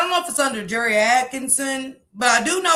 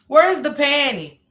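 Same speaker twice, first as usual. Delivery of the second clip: mocking disbelief; 3 semitones higher, 4 dB louder, slower than usual. Real, not acted. Mocking the calm caller.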